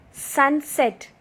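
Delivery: SUN, SET as two distinct beats; syllable by syllable. Shown as a demonstration. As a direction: sound out sunset in two parts. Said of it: "while pronouncing the words".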